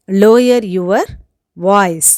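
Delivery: firm, loud command; angry demand. Shown as a demonstration. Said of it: "கோபத்தோட பேசுறதுக்கு".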